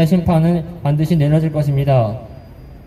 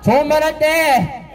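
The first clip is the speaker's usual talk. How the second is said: rally shout; 11 semitones higher, slower than usual. Real, not acted. Rally chant leader.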